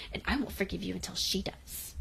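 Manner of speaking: soft, quick aside to herself; muttered afterthought, retold; said to oneself. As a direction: drop it under the breath as a private remark. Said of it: "turns back and says to herself".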